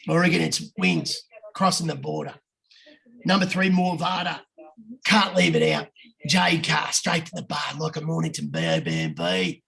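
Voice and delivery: put-on putting on an Aussie punter's accent; good Aussie voice. Reading Ando's tips to the boys, Aussie voice. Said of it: "do it in a good Aussie voice".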